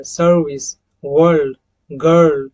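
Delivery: सर्विस, वर्ल्ड, गर्ल with a long er; long er demo. Shown as a demonstration. Teacher reading long-er words for students. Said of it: "अर का जो sound".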